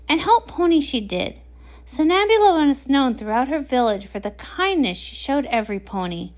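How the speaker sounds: measured storybook reading voice; story narration. Acted. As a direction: read the legend aloud to a friend. Reads story aloud to Pinkie.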